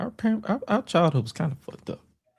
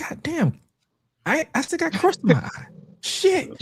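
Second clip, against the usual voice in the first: mock groggy groan. Groggy exasperated uncle.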